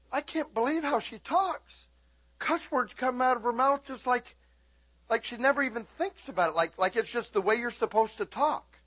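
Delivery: a hint of a scandalised coworker; mock shocked girl. Daughter voiced retelling a coworker's shock. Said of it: "She says".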